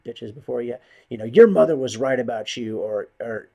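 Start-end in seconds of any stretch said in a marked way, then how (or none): 0.6-2.8 mocking taunt. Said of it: "I've heard that".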